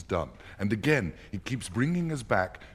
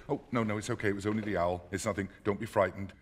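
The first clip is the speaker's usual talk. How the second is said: reassuring; faster than usual. Retold or imitated. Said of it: "Then she hears a noise".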